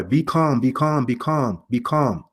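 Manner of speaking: mild retold plea to calm down; mother calling down. Preacher voicing the mother calling down to her son, lightly pleading. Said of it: "can be heard calling down to the boy".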